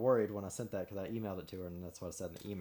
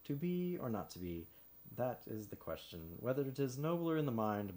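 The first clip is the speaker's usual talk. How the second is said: dramatic Shakespeare reading; 3 semitones higher than usual. Shown as a demonstration. Man demoing his plain Hamlet read for a friend, with measured emphasis. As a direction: recite it with measured emphasis and feeling. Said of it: "just reading it like that".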